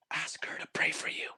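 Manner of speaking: breathy unvoiced whisper in the ear. A mysterious voice whispering again in his ear. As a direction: whisper it like a secret voice.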